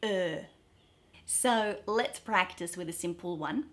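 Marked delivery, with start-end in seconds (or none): 0.0-0.4 "uh" placed forward, lips pushed out; forward sound. Shown as a demonstration. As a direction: push a steady "uh" to the front of the mouth. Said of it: "push that sound forward".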